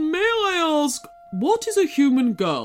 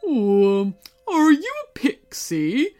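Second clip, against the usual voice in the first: weary; 5 semitones higher, 5 dB louder, slower than usual. Acted. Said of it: "he asked wearily".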